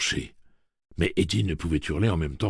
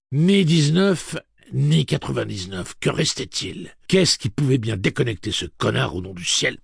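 loud, raised, desperate questioning; agitated, higher-pitched inner voice; frantic thinking; 8 semitones higher, 6 dB louder than usual. A narrator's reading. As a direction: search desperately for an answer. Eddie's frantic thoughts during countdown.

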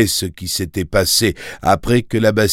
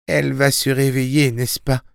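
put-on higher, anxious young boy; worried boy; 7 semitones higher than usual. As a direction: ask fearfully for reassurance. (garçon inquiet, voix plus aiguë)

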